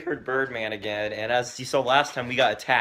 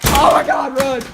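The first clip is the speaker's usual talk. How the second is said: panicking gamer; 10 semitones higher, 9 dB louder than usual. Pretend. Fleeing pretend Birdman.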